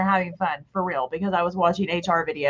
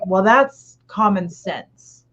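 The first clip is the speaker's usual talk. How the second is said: dismissive; much slower than usual. Retold or imitated. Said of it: "I was like".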